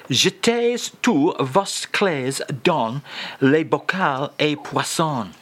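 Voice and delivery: slow, measured French phrase; relishing French read-out. Shown as a demonstration. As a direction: linger over the sound of the French. Host repeats French phrase, relishing sound.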